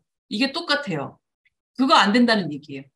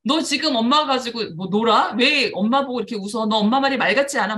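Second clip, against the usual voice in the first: retold angry scolding; mother scolding her laughing child, mild mock anger; 2 semitones higher, 4 dB louder than usual. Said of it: "막 이러시더라고요".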